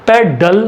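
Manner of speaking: पेडल broken into PED, DAL; syllable by syllable. Shown as a demonstration. Teacher showing first and second sound, पेडल split as PED, DAL. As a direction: say पेडल as two separate beats, PED then DAL. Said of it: "पेड पर पहला sound".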